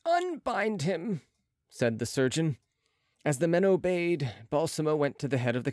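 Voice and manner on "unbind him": slow, higher-pitched order; surgeon's order. A narrator's reading. Surgeon orders his men to unbind the patient, slow command. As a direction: lift and stretch the command.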